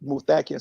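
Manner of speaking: Muthakir said with the beat on THA; stress on second syllable. Shown as a demonstration. Man repeating his corrected name, Muthakir with second-syllable stress. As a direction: land on the middle syllable of Muthakir. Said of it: "the accent is on the second syllable".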